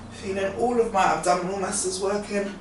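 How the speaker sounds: talking mid-crunch, straining; doing sit-ups. Real, not acted. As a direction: speak while crunching up. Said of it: "I'm really curling and crunching in".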